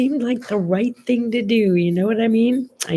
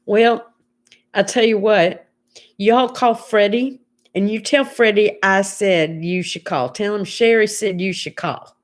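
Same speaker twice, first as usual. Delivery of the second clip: folksy Southern twang for a helpful woman; Southern accent. Retold or imitated. Helpful lady on the phone recommends a repairman, Southern accent. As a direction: imitate a friendly Southern lady. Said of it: "nice lady with a Southern accent".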